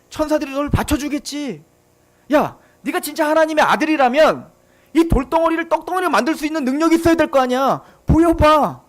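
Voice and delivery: 사탄 흉내를 내며 비웃듯 도발하는 목소리; taunting Satan. Retold or imitated. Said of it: "사탄이 예수님께 어떻게 시험했죠".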